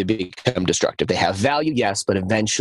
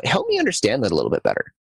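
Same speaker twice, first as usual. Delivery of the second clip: inquisitive; faster than usual. Shown as a demonstration. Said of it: "why not say".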